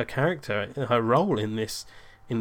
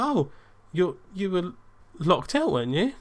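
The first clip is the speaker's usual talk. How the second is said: mock panic; 7 semitones higher than usual. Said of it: "in a bit of a, a panic".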